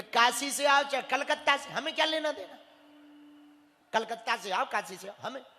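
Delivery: dismissive, put-on airs, brushing the visitor off; haughty and fussy. Village priest snubbing the Kashi pandit, fussy and dismissive. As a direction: wave away the Kashi boast with disdain. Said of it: "तो वो इतना नखरे में बोले".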